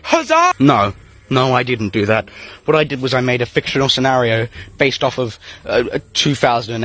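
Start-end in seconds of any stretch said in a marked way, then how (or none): 0.0-0.5 mustache twirling villain. Retold or imitated. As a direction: gloat like a mustache-twirling schemer. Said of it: "twirling my mustache and going".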